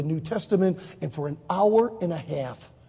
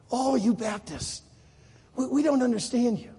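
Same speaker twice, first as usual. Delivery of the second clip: puzzled Israeli; 4 semitones higher than usual. Retold or imitated. Israeli explaining his confusion to Jim, lightly puzzled. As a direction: draw it out, as a baffled onlooker.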